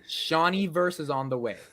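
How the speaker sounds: American accent model line. Shown as a demonstration. Host giving a line to copy, clear American accent. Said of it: "Say that in an American accent".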